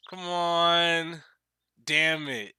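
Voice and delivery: loud, exasperated shout at the screen; frustrated yell. Real, not acted. Frustrated player yelling at game.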